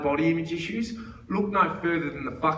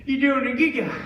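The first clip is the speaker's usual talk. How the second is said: put-on higher-pitched, eager old fella; excited old man; 6 semitones higher than usual. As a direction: act out a sudden burst of keen interest. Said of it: "he gets all excited".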